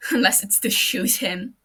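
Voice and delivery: loud laugh through the words; bitter laugh. Acted. Matsuda laughing bitterly at shooting his friend. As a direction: laugh at how cruel it is.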